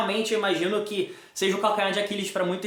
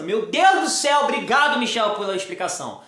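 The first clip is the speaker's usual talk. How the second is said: gratidão imitada. Retold or imitated. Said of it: "você vai sair daqui pensando".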